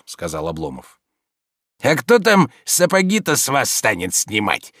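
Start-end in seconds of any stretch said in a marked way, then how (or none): 1.8-4.7 ironic. A narrator's reading. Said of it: "иронически заметил Захар".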